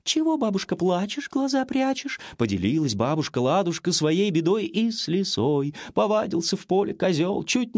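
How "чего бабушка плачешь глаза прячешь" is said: high, sweet fox voice; sly fox. A narrator's reading. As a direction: coo it like a cunning little fox. Fox asks the granny.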